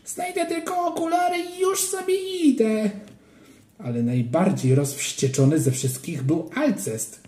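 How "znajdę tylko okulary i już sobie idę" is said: put-on high, pleading kid's voice; whiny child. A narrator's reading. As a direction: whimper it like a timid boy. Ananiasz continues whining. (płaczliwy, dziecięcy głos)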